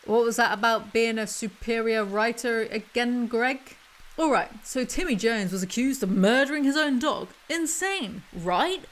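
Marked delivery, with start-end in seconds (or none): 4.2-8.8 talking through teeth; wired jaw. Real, not acted. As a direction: jaw clamped shut, words squeezed out. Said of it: "I'm talking through my teeth right now".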